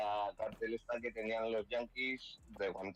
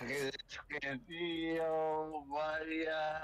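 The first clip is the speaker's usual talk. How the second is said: lightly voiced drunk Spaniard, higher; 5 semitones higher, much slower than usual. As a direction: slur it like a tipsy Spaniard. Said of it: "eres como un español borracho".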